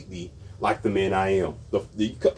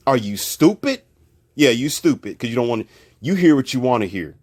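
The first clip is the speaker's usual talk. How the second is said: scolding critics; 5 dB louder than usual. Real, not acted.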